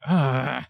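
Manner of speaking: drawn-out "ugh"; itchy groan. Acted. Game master acts out the player's itchy hands, groaning. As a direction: groan at a creeping itch. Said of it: "kinda like".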